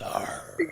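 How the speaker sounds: whispered pirate arr; a breathy pirate arr. Shown as a demonstration. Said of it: "Talk like a pirate".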